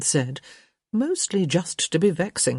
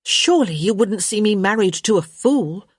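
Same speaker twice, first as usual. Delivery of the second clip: higher-pitched arch question; sarcastic; 5 semitones higher, 4 dB louder than usual. A narrator's reading. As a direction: ask with mock innocence. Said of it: "with a sarcastic tilt".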